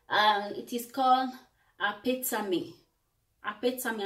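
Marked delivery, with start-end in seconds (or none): 1.8-2.7 apetame said the Italian way, ah-peh-tah-mee; Italian-style apetame, ah-peh-tah-mee; Italian pronunciation. Shown as a demonstration. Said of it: "I'm using the Italian pronunciation". 3.4-4.0 Apetame said the Italian way, ah-peh-tah-mee; Italian-style Apetame, each vowel sounded; Italian pronunciation. Shown as a demonstration. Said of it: "I'm using the Italian pronunciation".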